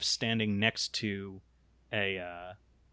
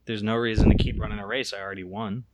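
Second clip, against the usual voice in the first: quick, offhand nonchalance; lightly acted, unbothered racer; nonchalant; faster than usual. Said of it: "sort of nonchalantly, and she says".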